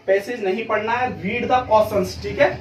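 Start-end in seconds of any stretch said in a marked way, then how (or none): 1.2-2.2 each word spaced out, very slow; slow emphatic step. Shown as a demonstration. Teacher to students, slow spaced-out step. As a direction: dictate the step. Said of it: "सबसे पहले आपको क्या करना है".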